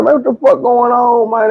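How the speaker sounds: high-pitched, bewildered demand; high, incredulous retelling of himself; acted-out bewilderment. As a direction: pitch it way up, wanting answers. Acts out his bewildered question.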